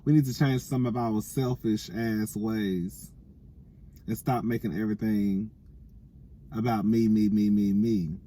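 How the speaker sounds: lisping round a retainer; wearing a retainer. Real, not acted. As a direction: speak with a retainer in. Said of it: "I got my retainer in".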